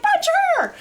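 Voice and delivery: very high yell breaking into laughter; laughing mock shout. Retelling the funeral gag, yelled high through laughter. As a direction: shout it again, cracking up. Repeated quote while laughing.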